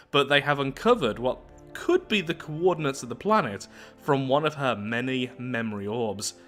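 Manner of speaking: measured read-aloud narrator voice; story narration. Acted. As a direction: read the lore out evenly, like an audiobook. Reads game story text.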